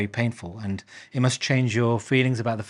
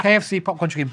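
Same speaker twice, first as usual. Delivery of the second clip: louder, higher, laughing through the words; 6 semitones higher, 4 dB louder than usual. Real, not acted. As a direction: defend the joke while laughing. Laughing at own KFC remark.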